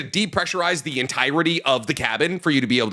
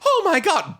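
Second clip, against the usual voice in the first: high-pitched gleeful gasp of words; mock delight; 13 semitones higher than usual. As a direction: imitate her thrilled squeal at disaster. Retold woman thrilled by disaster.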